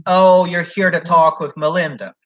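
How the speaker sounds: imitating a slow, pointed remark; mildly mock an oddly toned greeting, drawn out; unusual tone. Man at counter greeting an applicant, in an unusual tone. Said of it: "saying it in a very unusual tone".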